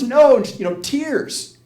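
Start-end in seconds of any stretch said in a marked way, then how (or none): 0.0-0.4 loud, high mock wail; retold tearful refusal. Woman facing a room of spiders, acted distressed refusal. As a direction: cry out in acted distress, without real tears. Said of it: "she's crying".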